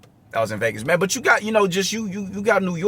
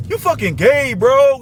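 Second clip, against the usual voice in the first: put-on raised, louder Russian-accented ribbing; 7 semitones higher, 4 dB louder, slower than usual. Russian coworker teasing another employee, imitated thick accent. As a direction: mimic a Russian coworker pitched high. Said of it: "in his thick Russian accent".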